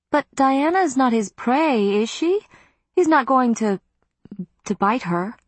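put-on high, anxious older woman; fretful and breathless, pitched high; worried aunt. A narrator's reading. Aunt Em frets.

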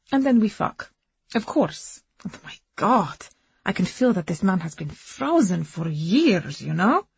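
put-on lightly accented woman recounting her love story; foreign-accented Agnes. Woman confiding her romance to a companion, earnest accented voice. Agnes continues, more animated.

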